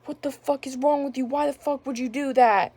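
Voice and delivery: mild mock outrage, voice lifted; retold angry cussing. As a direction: imitate an upset mom cussing, held back. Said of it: "she started cussing at me".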